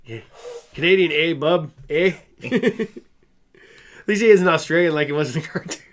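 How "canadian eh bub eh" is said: playful mock Canadian, loud and punchy; lightly put-on Canadian accent; jokey Canadian tough guy. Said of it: "Canadian accent".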